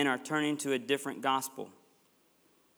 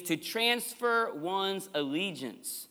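slow emphasis; 3 semitones higher, 3 dB quieter, much slower than usual. Shown as a demonstration. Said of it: "Turning, to transfer one's allegiance".

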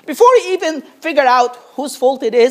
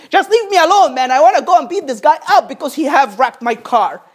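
mock angry driver. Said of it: "would cry out and say".

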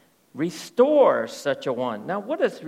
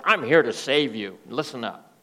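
mock conqueror; 5 semitones lower, 3 dB louder than usual. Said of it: "like you're the great mighty conqueror".

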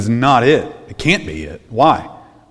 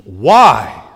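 in anguish. Acted. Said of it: "In anguish".

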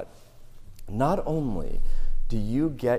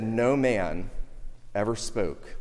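hushed awe; 3 semitones lower, 5 dB quieter, slower than usual. Retold or imitated. Officers answering the leaders, in hushed awe. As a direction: voice dropping much lower and softer.

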